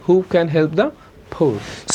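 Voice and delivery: slow "Who can help the poor" with "khen" and "phor"; pushed CAN and POOR. Shown as a demonstration. Teacher modelling the whole question, stressed "can" and "poor". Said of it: "বিশেষ করে ধাক্কা হবে".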